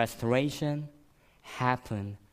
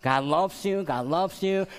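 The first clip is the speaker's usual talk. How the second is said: God loves you, God loves you, louder and higher; emphatic repetition; 8 semitones higher, 4 dB louder than usual. Retold or imitated. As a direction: proclaim it over and over. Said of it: "I speak a lot of love".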